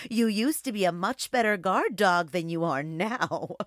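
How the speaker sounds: high giggly teasing; giggling wolf. A narrator's reading. Wolf teasing the old guard dog, giggling. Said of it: "poked her snout and giggled".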